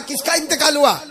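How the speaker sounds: high, light question; curious friend. Retold or imitated. Friend asking the grieving brother, light curiosity. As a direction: ask it lightly, a bit nosy.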